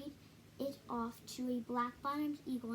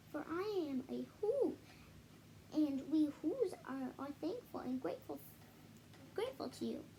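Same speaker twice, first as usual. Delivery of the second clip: tiny mayor voice; 2 semitones higher than usual. Acted. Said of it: "called the voice".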